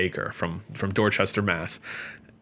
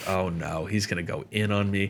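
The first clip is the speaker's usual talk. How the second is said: inner dread; 2 semitones lower, 6 dB quieter than usual. Retold or imitated.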